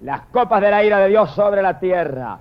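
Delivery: long cried-out first word, then measured; mild declaimed cry of command; shouted command. Acted. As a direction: call out the order, stretching the first word. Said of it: "Y le gritan".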